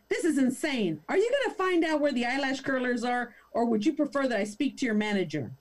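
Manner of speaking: mock Karen indignation; entitled threat. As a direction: demand the manager. Karen threatens manager complaint.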